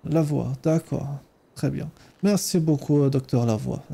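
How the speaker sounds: put-on Ukrainian accent. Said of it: "mon superbe accent ukrainien".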